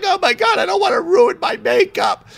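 hammed-up vain whine about makeup; quoting Kim fretting about her makeup in a high mock voice; imitating Kim. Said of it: "she's like".

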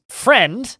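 imitated high-pitched cry; mock scream. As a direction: exclaim it like an excitable shopkeeper, short of a scream. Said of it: "and he screams".

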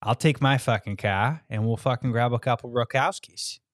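mock Boston accent. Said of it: "a Boston accent to it".

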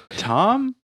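high laughing question; laughing squeal. Real, not acted. Laughing guess.

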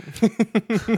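drawn-out high dog-like squeal; high cartoon squeal. Scooby reacts to falling pumpkin.

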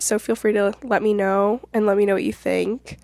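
stuffy, nasal from a cold. Real, not acted. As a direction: talk through a blocked nose. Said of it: "sorry about the nasaliness to my voice".

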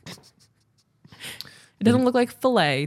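drawn-out emphasis on doesn't; doesn't stretched out slowly, high; slow and emphatic. Shown as a demonstration. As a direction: stress the doesn't in slow disbelief. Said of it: "I read it the way it's written".

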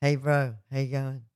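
a hint of a bro, dropping low and soft; lightly voiced bro greeting a friend; mock bro voice. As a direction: play a casual guy greeting his mate, lightly. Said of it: "coach me in, like, boy talk".

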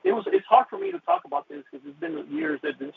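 fighting back tears while speaking; emotional, voice breaking. Real, not acted. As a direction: voice catching high with real emotion. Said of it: "I'm so emotional right now".

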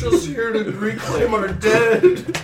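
squeaky bear voice. Acted. Bear explaining.

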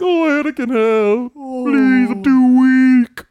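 loud, very high mock wail for help; begging Emperor. Emperor begging Anakin for rescue, hammed-up wailing plea. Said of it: "then he starts begging".

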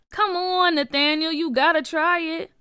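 put-on cajoling older kid; coaxing. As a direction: egg him on to join in. Junior pressures Nathaniel to try.

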